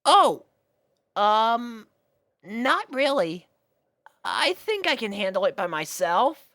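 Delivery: put-on high, hesitant boyish voice; a shy kid turning down help; young dragon voice. Spike turning down Sweetie's offer, high hesitant boy voice.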